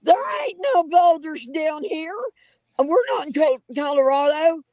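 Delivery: calling it out, half-shouting; retold shout. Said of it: "about the time I say".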